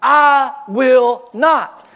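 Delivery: drawn-out mock-defiant refusal; stubborn refusal. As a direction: dig in your heels on each word. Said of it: "depraved part of us that says".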